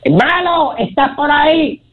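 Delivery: high calling voice. Acted. Calling the devil on shoulder.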